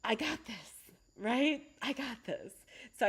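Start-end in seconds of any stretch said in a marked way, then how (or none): 0.0-0.7 calm self-talk. Retold or imitated. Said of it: "I take a breath and I go". 1.8-2.5 quiet self-reassurance. Retold or imitated. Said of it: "I take a breath and I go".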